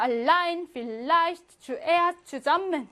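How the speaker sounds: "allein," "vielleicht," "zuerst," "zusammen" stressed on lein, leicht, erst, sam; stress on second part. Shown as a demonstration. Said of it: "뒤에 강세가 오더라".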